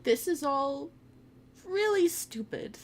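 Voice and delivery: rough, tired hoarse complaint; hoarse Mumbo. Acted. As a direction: squeeze it out high and slow, throat worn out. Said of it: "his voice sounding hoarse".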